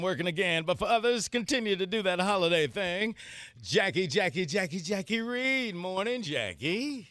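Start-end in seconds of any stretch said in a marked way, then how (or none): 3.6-5.7 drawn-out sing-song intro; announcer call-out. Real, not acted. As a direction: hype up the name like a host. Radio host introducing co-host.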